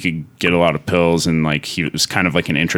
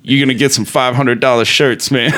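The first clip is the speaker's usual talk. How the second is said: boasting dealer; 5 semitones higher than usual. Retold or imitated. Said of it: "He's like".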